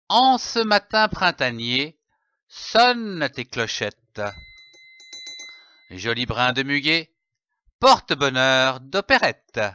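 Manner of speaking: short poem recited line by line, with pauses; poem recitation. Acted. Presenter reads an example May Day poem to the viewer, recited. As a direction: recite the little verse, lifting the opening.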